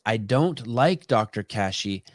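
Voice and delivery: slow, measured words leaning on LIKE; stress on LIKE. Shown as a demonstration. Explaining a language point to the guest, stress on "like". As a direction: make "like" the weighted word, unhurried. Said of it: "don't is pointing at like".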